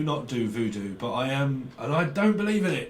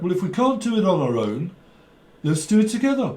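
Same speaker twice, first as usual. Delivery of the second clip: raised-pitch, lightly mocked Brummie; Brummie accent; 4 semitones higher, 3 dB louder than usual. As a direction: imitate a Birmingham speaker. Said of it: "someone's Brummie".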